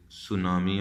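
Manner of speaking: "सुनामी" starting on a plain s; silent T. Shown as a demonstration. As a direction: say "सुनामी" without any t before the s. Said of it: "टी एस से".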